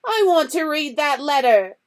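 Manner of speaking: high, loud whine; spoiled son demanding the letter. A narrator's reading. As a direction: demand it loudly. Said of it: "he said loudly".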